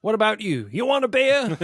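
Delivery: high, laughing swagger; hammed-up villain voice; mock gangster. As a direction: toss off a casual taunt. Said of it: "So funny lines then".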